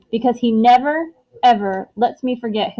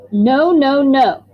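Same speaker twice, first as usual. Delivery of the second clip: loud and higher, still yelling; angry shouting; 4 semitones higher, 6 dB louder, much slower than usual. Acted. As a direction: keep shouting the nos at them. Boy keeps shouting at parents.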